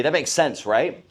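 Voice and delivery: confident tag question that expects a yes; leading, assumptive check; assumptive pre-close. Shown as a demonstration. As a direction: steer them to agree. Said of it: "When I say it like that".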